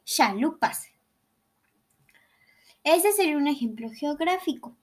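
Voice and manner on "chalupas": put-on northern Mexican accent. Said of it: "en vez de decir che, dicen sh".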